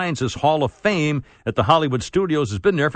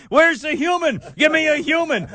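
retold demand; 13 semitones higher than usual. Demanding a real person on phone.

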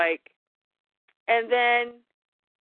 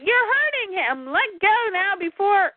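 voicing Damien; 9 semitones higher than usual. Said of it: "Damien's like".

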